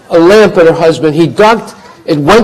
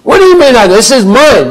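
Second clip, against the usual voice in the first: high, loud possessive protest; king insisting to the sadhu that the palace is his; indignant king; 7 semitones higher, 5 dB louder than usual. Acted. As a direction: shout the claim back.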